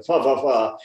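mock upper-crust British blather; upper-crust British accent. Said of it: "the upper crusting".

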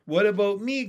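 high, loud little froglet; calling out. A narrator's reading. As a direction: pipe up eagerly from below. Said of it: "called another voice".

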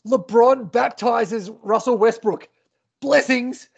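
slow, mildly hyped highlight voiceover; a hint of a dramatic announcer; voiceover guy. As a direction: lightly ham up a TV promo read. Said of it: "the voiceover guy".

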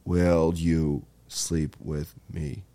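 low, slow, soft ghostly come-on; spooky ghost voice. Pretend. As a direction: drag it out like a horny spirit. Mock ghost voice at ouija.

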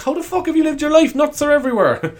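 high-pitched mock disbelief; hammed-up incredulous protest. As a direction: question it as if utterly baffled. Acts disbelief at nut allergy.

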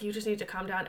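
soft counsellor voice; therapist voice. Retold or imitated. Wife accidentally using therapy voice on husband, softly. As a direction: talk someone down softly. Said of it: "And I started talking like this".

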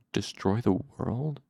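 a soft, stunned question; soft to himself. Acted. Quietly said to himself. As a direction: Selatos murmurs the question to himself, softly. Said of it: "said softly to himself".

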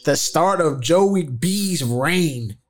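slow, drawn-out wrestler promo voice; slow, over-the-top wrestler impression; Macho Man. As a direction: stretch each word like a wrestling hype man. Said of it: "get my Macho Man voice on".

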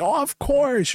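high, eager agreement; hammed-up happy yes; mock eager. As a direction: chirp it back brightly. His own cheerful reply quoted.

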